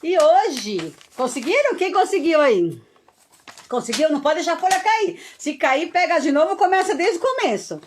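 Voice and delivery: rally the class, bright and urgent; excited cheering. Real, not acted. Teacher checking if everyone kept the paper up, excited.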